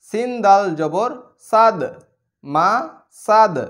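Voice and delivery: মাসাদ ending on a released দ; qalqala bounce. Shown as a demonstration. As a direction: push the sakin দ in সাদ out with a bounce. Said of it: "সেমভাবে ঠিক একই রকম".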